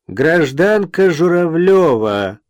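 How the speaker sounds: slow, raspy, ominous address. A narrator's reading. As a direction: drag the name out in a creaky voice. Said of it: "скрипучим голосом сказал Жуков".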